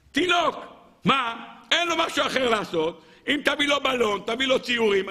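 high, pleading argument; exasperated protest. Acted. Jethro defending the baby to the cabinet, exasperated. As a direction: argue it high, as if stating the obvious.

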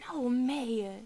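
loud sudden correction; sharp correction. Acted. Older maid correcting her sister May, sharp and loud. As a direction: cut your sister off.

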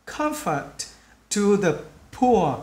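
slow diction with final sounds marked; slow, word by word. Shown as a demonstration. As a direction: pause after each word for learners. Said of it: "mình nói chậm từng chữ". (nói chậm, nhấn âm cuối)

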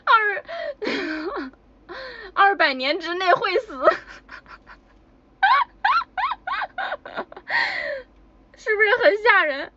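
high, loud words squeezed out through real laughter; can barely get the punchline out for laughing; real giggling fit. Real, not acted. Cracking up while retelling punchline.

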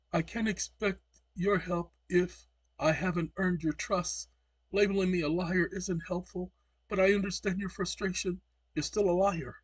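mocking the AI's polite answer; mocking the chatbot. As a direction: read the bot's reply with a sneer. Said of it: "he says".

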